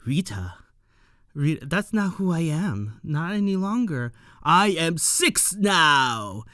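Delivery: a mild mock Vader, declaring a mission; Darth Vader impression. Rita as Lord Six, half-hearted Darth Vader declaring her mission. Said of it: "So she is pulling a Darth Vader".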